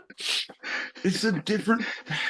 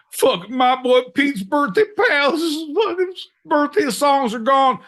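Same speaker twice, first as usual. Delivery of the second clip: mock outrage; 7 semitones higher than usual. Improv rant about stolen birthday.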